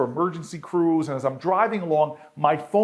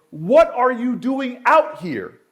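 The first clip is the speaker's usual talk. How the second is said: slow, higher and louder yell over a storm; retold yell; 8 semitones higher, 4 dB louder, slower than usual. Mayor yelling at the old man from his car window. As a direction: call out over the wind and rain. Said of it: "I yell at him".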